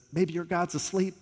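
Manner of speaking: teasing, rising mockery, peaking high on "on a trip"; playful sarcastic jab; mocking taunt. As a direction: taunt the false prophets lightly. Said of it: "He starts kind of mocking them".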